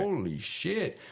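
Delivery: high-pitched mock Mexican-accented amazement; bad Mexican accent. Mexican cellmate amazed at the fighter, in an attempted Mexican accent. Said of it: "I'm not really good at accent".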